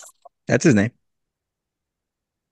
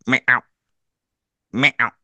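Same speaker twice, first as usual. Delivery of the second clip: imitating a meow; 3 semitones higher than usual. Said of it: "you go".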